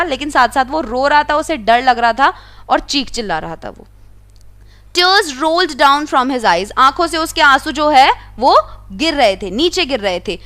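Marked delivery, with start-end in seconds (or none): 4.9-6.7 slow, careful read-aloud of the story. A narrator's reading. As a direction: read each word out slowly for the class. Reading the English story text. (धीमी आवाज़ में कहानी पढ़ना)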